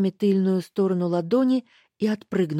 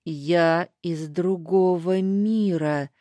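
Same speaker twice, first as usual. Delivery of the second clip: strained; much slower than usual. Acted. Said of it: "сдавленно произнёс Лестер".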